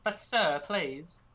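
pleading put-on British accent. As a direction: beg politely in playful British English. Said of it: "when you do your British accent".

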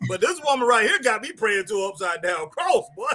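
laughing while pushing the line out; telling how Tatum gets him praying to an upside-down cross. Real, not acted. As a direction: get the punchline out through a laugh. Laughing through punchline.

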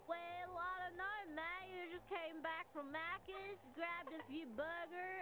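soft-spoken mock Australian accent; laid-back imitation Australian accent; put-on Australian accent. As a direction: play a casual Aussie, quietly. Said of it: "What makes you Australian? This voice".

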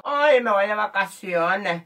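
ordinary delivery

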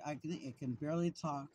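talking through a mouthful; words round a big bite; mouth full. Real, not acted. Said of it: "My mouth is full".

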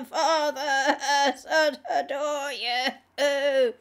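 slow, high, croaking demon voice. A narrator's reading. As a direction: croak the words out slowly. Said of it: "a croaking noise came from her throat".

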